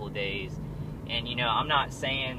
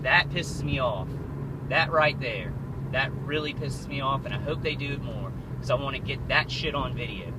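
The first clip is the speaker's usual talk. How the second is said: louder, higher, real irritation boiling over; venting his anger at the camera, louder and higher; 3 semitones higher, 3 dB louder than usual. Real, not acted. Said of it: "I'm very angry".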